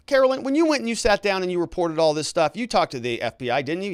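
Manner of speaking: re-enacted lawyer, pressing with leading questions; cross-examining lawyer.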